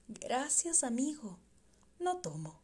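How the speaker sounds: Julián quietly refusing a drink in the tavern; quiet refusal. Acted. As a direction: turn the drink down gently.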